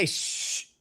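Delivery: unvoiced hush, barely there; whispered shush. Shown as a demonstration. Shushing somebody nearby in a whisper. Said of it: "if you tell somebody".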